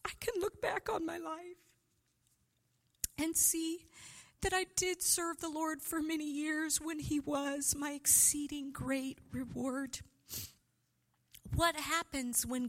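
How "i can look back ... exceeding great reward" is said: high hushed whisper of longing; whispered inner prayer. Retold or imitated. Preacher voices her own silent prayer, hushed whisper. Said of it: "And I thought".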